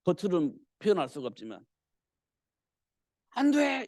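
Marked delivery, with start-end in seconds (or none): 3.3-3.9 high, drawn-out cry of dismay; imitated outcry. Preacher acts the king's inner protest, crying out. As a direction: wail it as the horrified king. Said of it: "이렇게 이제 소리 짓겠죠".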